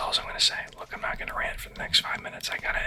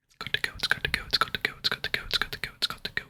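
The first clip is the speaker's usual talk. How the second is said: whispered catchphrase on a running loop; JoJo imitation; faster than usual. Reenacting an ASMR creator's catchphrase for viewers, looping whisper. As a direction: repeat it without a break, lightly mimicking an ASMR creator. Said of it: "that's exactly what he sounds like".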